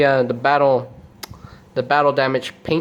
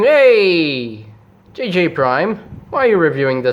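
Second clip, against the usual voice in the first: calling out; 3 semitones higher than usual. Retold or imitated. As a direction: hail the host like an indignant viewer. Imagined viewer calling out.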